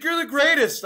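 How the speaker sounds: imitating a gushing fan; gushing drunk fan. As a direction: gush at him like a tipsy fan. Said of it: "she's like".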